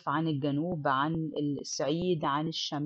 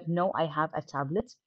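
slow reading; much slower than usual. Shown as a demonstration. Teacher reading the textbook dialogue to students, slow and clear. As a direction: read "do you have a computer to do your homework" slowly and clearly. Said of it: "reads textbook dialogue aloud".

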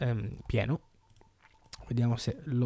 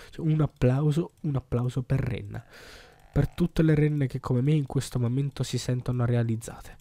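triumphant. Real, not acted. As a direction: cheer yourself on. Celebrating success loudly.

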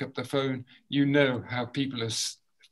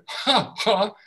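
crisp louder ha ha from the diaphragm; short loud ha ha; 6 semitones higher, 4 dB louder than usual. Shown as a demonstration. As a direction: pump the tummy on each ha. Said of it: "I want you to go".

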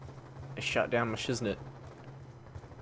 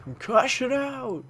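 mock announcer callout, slow and a bit louder; echoing the callout; 11 semitones higher, 4 dB louder, slower than usual. Echoing the game voice's grenade callout, mock announcer. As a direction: parrot the game's callout, drawn out. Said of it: "game voice calls Concussion out".

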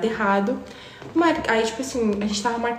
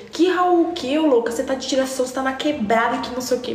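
mock scoffing friend; 4 semitones higher than usual. The speaker mocking the girl.

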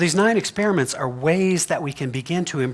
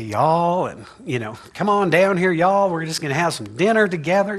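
put-on Southern accent; 2 semitones higher than usual. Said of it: "They say".

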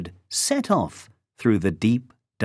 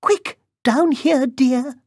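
very high granny stage whisper; urgent grandmother; 3 dB louder than usual. A narrator's reading. Grandmother under the bed summons the girl, high and urgent. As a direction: hurry her in a high, hushed-urgent voice. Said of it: "whispered Grandmother".

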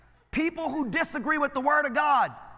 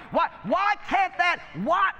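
preaching shout; 5 semitones higher than usual. Real, not acted.

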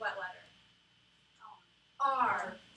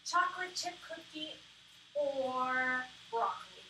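choosing between options; 2 semitones higher than usual. Shown as a demonstration. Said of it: "I think of this like".

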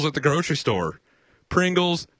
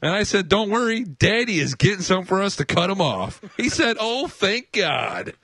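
lightly voiced girly chick, higher; 5 semitones higher, slower than usual. Shown as a demonstration. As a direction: read it as a chick, a touch higher. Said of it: "I don't have to do my chick voice".

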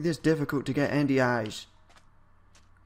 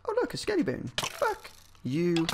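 squeaky mock voice; 5 semitones higher than usual. Spots skeleton, mock voice.

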